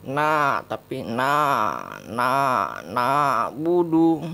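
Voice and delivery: loud drilled na budu with a firm ain; pronunciation demo. Shown as a demonstration. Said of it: "jangan dibaca na".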